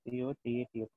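letter by letter, each letter apart; dictating a spelling to students. Shown as a demonstration. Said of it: "this is potato".

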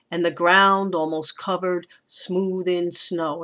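scanned with stress on GROUND and SNOW; anapestic meter. Shown as a demonstration. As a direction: lean on "ground", keep "and the" light. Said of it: "meter is exactly the same".

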